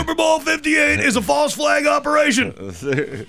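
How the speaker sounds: high, shouted conspiracy rant; Alex Jones. Pretend. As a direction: yell it like a paranoid radio host. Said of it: "he's gone a hundred percent Alex Jones".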